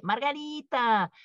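slow, drawn-out patronizing calm-down; dismissive calming. Pretend. Someone telling angry Margarita it is no big deal, slow and dismissive. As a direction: play down her anger slowly. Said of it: "alguien te dice".

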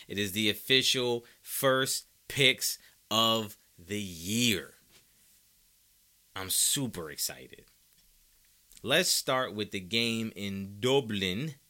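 a slow, hammed-up Irish accent for the picks; bad Irish announcer voice, drawn out; a clumsy mock Irish lilt; terrible Irish accent. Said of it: "That was a terrible, terrible Irish accent".

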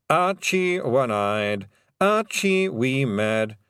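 slow, deliberate reading of names; measured lawyer roll call; formal roll call. Acted. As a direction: read the names gravely. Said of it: "cleared his throat and read out".

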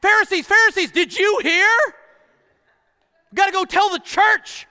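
loud, high excited gossip; gossiping townsperson. Retold or imitated. Town gossip running to the Pharisees, loud and high. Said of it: "how did the Pharisees hear".

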